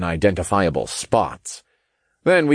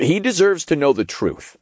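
higher-pitched firm interruption; interjecting; 9 semitones higher than usual. A narrator's reading. Narrator cuts off Raphael's warning, interjecting. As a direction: cut in, voice raised in pitch. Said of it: "I interjected".

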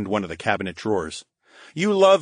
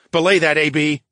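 firm louder order to the brain; booming command; 4 semitones higher, 5 dB louder than usual. Acted. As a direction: cut him off like a captain. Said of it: "I boomed".

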